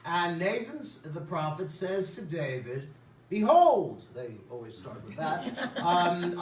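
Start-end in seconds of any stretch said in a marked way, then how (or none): 3.3-4.0 loud, solemn "Behold" with a falling close; grand prophetic "Behold". Acted. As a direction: boom "Behold" like an Old Testament prophet. Prophet's grand opening word.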